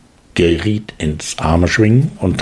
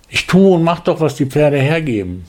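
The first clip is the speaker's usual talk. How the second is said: growled; 6 semitones higher than usual. Acted. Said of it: "knurrte er".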